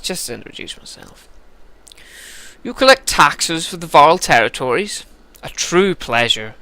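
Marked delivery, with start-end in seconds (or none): 2.7-6.6 a bad, haughty English prince accent; lightly put-on English accent, aloof. Prince Ludin greeting the scribe, bad English accent. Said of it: "like my English accents".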